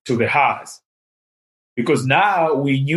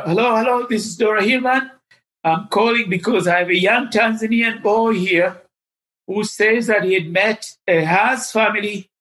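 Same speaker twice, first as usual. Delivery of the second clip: higher, poised phone voice of a charming lady; imitating a charming caller introducing herself; confident charming lady; 6 semitones higher than usual. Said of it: "Missus Hillman starts".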